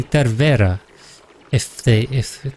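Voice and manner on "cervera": "cervera" stressed on the middle syllable, ver; th at the start of "cervera", stress on VE; Spanish accent placement. Shown as a demonstration. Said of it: "the accent".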